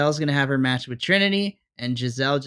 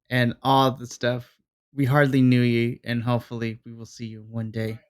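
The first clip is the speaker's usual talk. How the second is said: memorial tribute. Pretend. Mock memorial tribute to departed wrestler.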